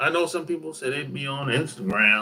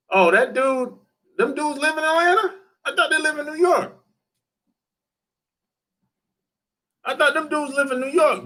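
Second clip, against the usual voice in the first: surprised; 10 semitones higher than usual. Real, not acted. Surprised they live in Atlanta.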